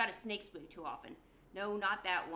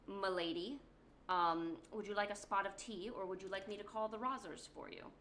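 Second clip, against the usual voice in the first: put-on a lightly done British gent accent, polite; mock-posh British butler offering tea, gently. Corbeau courting the listener, light British accent. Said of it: "British accent".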